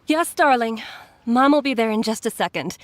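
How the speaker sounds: put-on loving call back to a child. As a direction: answer the child across the room. Answering child from afar.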